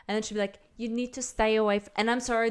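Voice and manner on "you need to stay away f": lightly imitated Latin accent; bad Latin accent. Host imitates her warning people off, bad Latin accent. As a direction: attempt a Latin accent, quickly abandoned. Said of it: "this accent's gonna suck".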